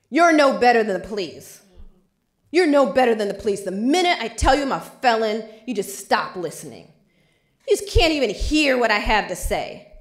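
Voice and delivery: loud, enraged retelling of the client. Retold or imitated. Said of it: "And then he becomes enraged".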